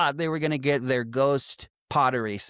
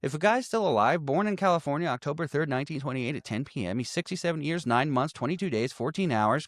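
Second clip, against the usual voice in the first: mock lecturing know-it-all; 3 semitones higher than usual. Retold character explaining age math.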